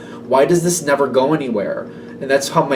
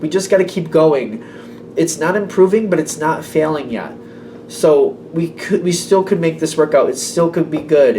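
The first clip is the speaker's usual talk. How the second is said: higher, upbeat cheerleading encouragement; cheerleader pep talk; 3 semitones higher than usual. Retold or imitated. Reader voicing the helper's pep talk, upbeat cheerleader tone. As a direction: lift them up like a cheerleader. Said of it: "this cheerleader feel here".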